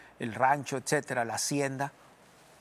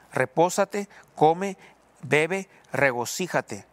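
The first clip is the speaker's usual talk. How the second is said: smug indulgent command; 6 dB louder, much slower than usual. Acted. Rich man tells his soul to enjoy.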